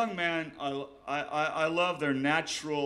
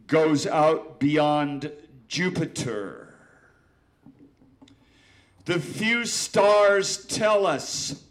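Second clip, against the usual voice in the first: slow, loud dramatic poetry recital; old poet declaiming to the room; poem reading; 7 dB louder, much slower than usual. Acted. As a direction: intone each line slowly, with long pauses. Reads his poem aloud.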